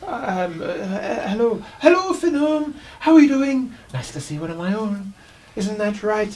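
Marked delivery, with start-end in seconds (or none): 1.3-3.7 much higher and louder gnome voice; eager little gnome greeting a kinsman; squeaky gnome. Acted. Gnome performer delighted to meet a fellow gnome.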